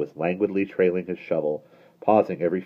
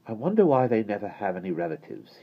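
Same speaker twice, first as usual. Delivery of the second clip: put-on boy voice; 4 semitones higher than usual. A narrator's reading. Michael voiced in story.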